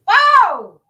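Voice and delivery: sudden high shocked "Oh!"; shocked gasp. Real, not acted. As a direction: react in loud disbelief. Shocked exclamation in debate.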